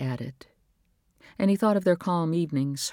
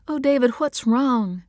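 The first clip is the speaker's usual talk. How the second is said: higher, louder, slow plea; worried wife; 9 semitones higher, 5 dB louder than usual. A narrator's reading. Wife worried about silent husband, pleading. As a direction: lean in with concern.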